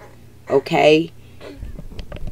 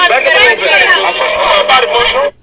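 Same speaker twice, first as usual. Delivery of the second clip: whispered, drawn out slowly; 9 semitones higher, slower than usual. Acted. Preacher telling the crowd to back up, in a slow whisper. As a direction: breathe it out slow and hushed.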